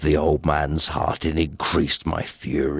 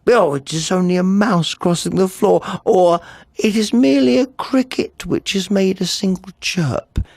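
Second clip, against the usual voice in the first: a higher, anxious self-reassurance; frightened old man comforting himself; 11 semitones higher than usual. A narrator's reading. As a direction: voice the old man hoping it is nothing. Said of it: "He'd been trying to say to himself".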